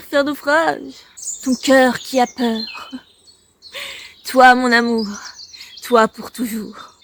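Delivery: declaimed poem with pauses between lines; poem recitation. Acted. Vlogger reads an old love poem to viewers, recited. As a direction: read the verses out, leaning on each opening phrase.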